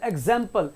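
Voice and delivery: एग्जाम्पल stretched a little in the middle; एग्जाम्पल with a long 'zam'; drawn-out vowel. Shown as a demonstration. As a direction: hold the second vowel of एग्जाम्पल. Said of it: "थोड़ा खींचते हैं".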